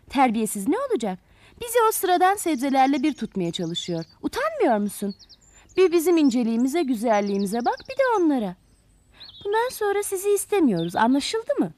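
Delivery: haughty, hammed-up telling-off with swooping pitch; indignant storybook scolding; cutting him short. Vain flowers cutting the hoe short, indignant scolding. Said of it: "çapanın sözlerini ağzına tıkamışlar".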